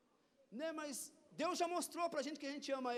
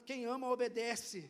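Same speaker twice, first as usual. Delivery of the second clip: happy declaration. Shown as a demonstration. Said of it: "Fale com um rosto feliz de quem obedece".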